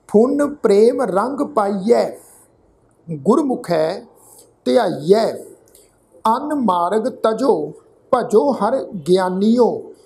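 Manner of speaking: drawn-out, measured chant of the verse; scripture read like a path; slow scripture recitation. Acted. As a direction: intone each word slowly, reverently.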